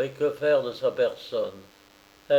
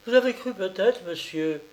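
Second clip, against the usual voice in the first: hurried; 7 semitones higher than usual. A narrator's reading. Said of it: "dit-elle avec précipitation".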